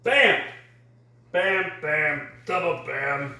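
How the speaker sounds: high shouted bams, fading down; excited exclamation. Real, not acted. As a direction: punch each bam out. Chef's flourish adding toppings.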